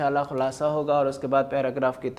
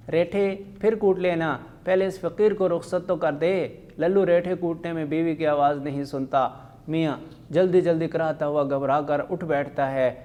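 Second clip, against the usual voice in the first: voicing husband and wife in turn, lively; reading a play aloud. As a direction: read the dialogue to the class with light character voices. Teacher reads a comic play aloud.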